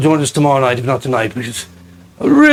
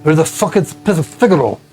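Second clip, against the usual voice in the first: lightly lisping dwarf; a hint of a dwarf lisp; lispy dwarf voice. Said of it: "kind of with a lispy voice".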